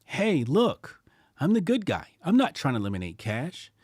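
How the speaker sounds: mock good guy. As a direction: sell it like a fake-friendly government. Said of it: "Nah, it's more like".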